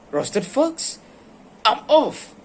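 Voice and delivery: high, loud panicked squeak; the fox bolts in terror; frightened fox. Acted. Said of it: "fox said".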